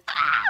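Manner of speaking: sudden short scream; joyful scream. Real, not acted. Streamer overjoyed about Lucky, joyful scream. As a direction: burst out with a scream.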